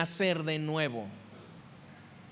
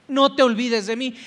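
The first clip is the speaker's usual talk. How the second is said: the plea repeated much louder, "No te olvides de mí" cried out; the thief's second, louder "No te olvides de mí"; pleading cry; 3 semitones higher, 6 dB louder than usual. Acted. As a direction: call out the plea with urgency. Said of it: "y le dijo".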